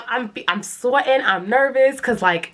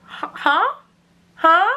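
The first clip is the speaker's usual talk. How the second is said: mock surprise; 6 semitones higher than usual. Feigned surprise.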